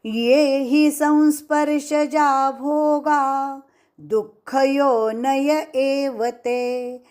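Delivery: unbroken Sanskrit verse chant; full verse recitation. Shown as a demonstration. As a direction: recite the whole Sanskrit shloka evenly. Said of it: "पूरा श्लोक".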